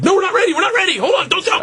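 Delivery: high, frantic pleading; hammed-up panic, pitched very high; imitated panicked crew. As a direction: play the crew begging him to wait. Crew panicking, not ready.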